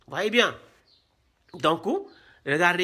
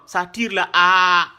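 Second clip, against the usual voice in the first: stretched vowel demo; 2 semitones lower, 6 dB louder than usual. Shown as a demonstration. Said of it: "c'est un allongement".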